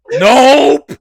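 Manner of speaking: high, loud, punched-out word; sudden storyteller's shout; emphatic exclamation. Retold or imitated. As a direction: burst out with a comic denial. Ride is not over after all.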